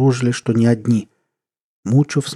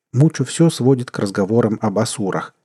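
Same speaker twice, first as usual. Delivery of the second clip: plain reading voice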